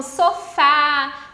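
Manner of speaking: "sofá" with the last syllable FÁ drawn out; stress on final syllable. Shown as a demonstration. Teacher giving an example of words ending in A, final-syllable stress on "sofá". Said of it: "terminadas em A".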